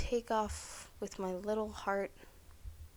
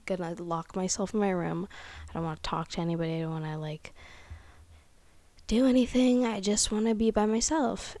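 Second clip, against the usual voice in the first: louder, fed-up mock rant, peaking loud on the end; grumpy outburst; 7 dB louder, faster than usual. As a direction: grumble like you're done with everyone. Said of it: "on the polar opposite where I'm like".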